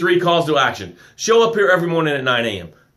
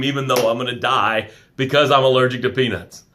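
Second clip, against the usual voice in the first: lightly voiced besotted fiancée, a touch lower; mock the girl who can't stop raving about her man; hint of a lovestruck gush; gushing engaged girl; 3 semitones lower than usual. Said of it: "the girl that's engaged, she talks about it".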